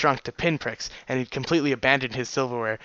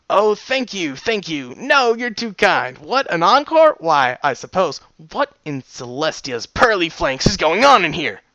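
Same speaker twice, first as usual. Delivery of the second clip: hammed-up thanks to adoring fans, higher and louder; grandly flattered performer; mock-modest showman; 3 semitones higher, 5 dB louder than usual. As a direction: soak up imaginary applause with false modesty. Narrator playfully accepts imagined applause.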